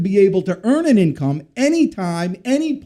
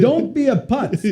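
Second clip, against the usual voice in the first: put-on higher, slow French Jewish accent dad voice; slowly, higher, in dad's French Jewish accent; 6 semitones higher than usual. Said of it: "in his little French Jewish accent".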